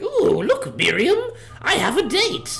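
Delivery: squeaky, very high put-on wizard voice. Describing a popular video of a wizard using Tinder, in a wizard voice. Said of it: "that wizard voice you used to do".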